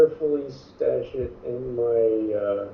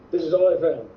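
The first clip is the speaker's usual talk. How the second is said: grinning voice; 3 semitones higher than usual. Acted. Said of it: "with a big grin on my face".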